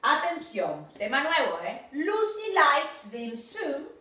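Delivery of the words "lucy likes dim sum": Lucy likes dim sum said slowly, S of likes clear; teacher models the pronunciation; careful pronunciation. Shown as a demonstration. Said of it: "ojo la pronunciación".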